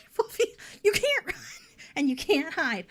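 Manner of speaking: very high, loud taunting voice; mock creepy sing-song. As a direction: taunt her in a shrill villain singsong.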